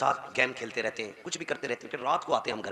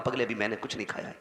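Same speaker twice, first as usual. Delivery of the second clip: tender mother; 4 dB quieter than usual. Retold or imitated. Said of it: "फिर भी उसने कहा".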